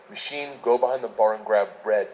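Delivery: a hint of a Russian accent, low; Igor. Bar companion orders the narrator behind the bar, light Russian accent. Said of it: "and in Russian he says".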